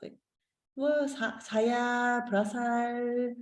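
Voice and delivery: high, puzzled listener voice; baffled listener voice; confused listener. Retold or imitated. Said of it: "maybe you will be like this".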